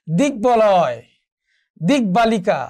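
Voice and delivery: দিকবলয় and দিকবালিকা with a clearly sounded b; careful teacher's demo, keeping the b in দিকবলয় and দিকবালিকা; b fully pronounced. Shown as a demonstration. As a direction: release a full b in দিকবলয় and দিকবালিকা. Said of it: "ব ফলার উচ্চারণ হবে".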